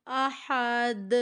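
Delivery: احد with the final د bounced and echoed; qalqala demo. Shown as a demonstration. Teacher demonstrates qalqala on the final letter. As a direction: shake the last letter of احد. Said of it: "کیسے پڑھیں گی؟".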